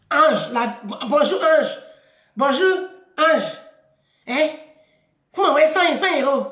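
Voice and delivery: curt mock demand; expeditious message. Father texting his daughter for money, curt and expeditious. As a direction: imitate a brusque money request in short bursts. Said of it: "tu m'envoies un message expéditif".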